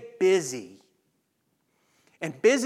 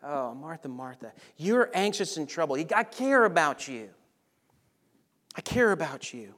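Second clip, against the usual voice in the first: tender, chuckling Jesus; 3 semitones lower, 4 dB quieter than usual. Acted. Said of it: "Almost like with a chuckle".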